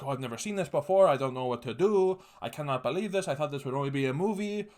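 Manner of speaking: nervous. Retold or imitated. Imitating the nervous Montreal police chief, mildly panicky. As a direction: play her as flustered and out of her depth. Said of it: "this chick is, like, nervous".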